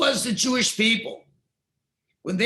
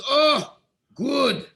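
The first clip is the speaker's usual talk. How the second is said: a loud, higher "Oh, good," then settling; delighted that they finally call out; pleased exclamation; 6 semitones higher, 6 dB louder than usual. Acted. God, pleased his people cry out again, loud and delighted.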